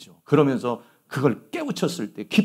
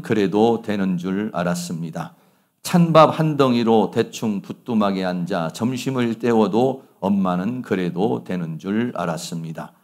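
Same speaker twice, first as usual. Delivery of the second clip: poem reading; 4 semitones lower than usual. Acted.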